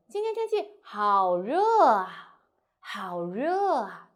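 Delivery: 好热 stressed, voice falling at the end; exclaim, then let it drop. Shown as a demonstration. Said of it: "The description word or the compliment will stress".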